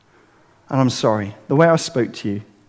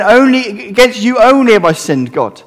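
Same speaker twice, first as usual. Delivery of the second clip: off-sounding reading; 6 semitones higher, 3 dB louder than usual. Shown as a demonstration. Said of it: "this doesn't sound quite right".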